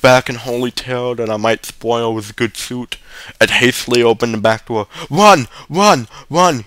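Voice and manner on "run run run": high, urgent repeated command; narrator's contained shout. A narrator's reading. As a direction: call out each word separately, pitched up. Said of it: "he shouted".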